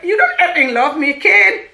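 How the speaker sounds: high, shouted accusations; hammed-up indignant yelling; imitating crazy, angry husband. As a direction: rant loudly with laughter creeping in. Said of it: "He was crazy".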